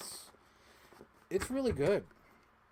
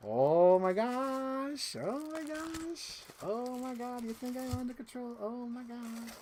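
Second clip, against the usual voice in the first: mock astonishment; 9 semitones higher, slower than usual. Overacted gasping over the toy.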